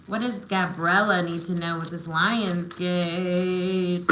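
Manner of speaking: slow, drawn-out invocation; intoned card-reader question. Real, not acted. Reader asking spirit for Gabriella's message, slowly intoned. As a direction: stretch the question out as if summoning the answer. Repeats question while drawing cards.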